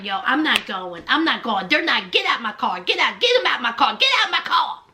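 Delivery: low-pitched, understated imitation of fussing. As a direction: retell the repeated demands low, without shouting. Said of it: "Gabby is still fussing".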